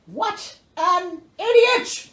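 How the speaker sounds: slow, drawn-out high groan of disbelief; exasperated scoff. Real, not acted. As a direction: roll your eyes at the idiot. Exasperated aside about father.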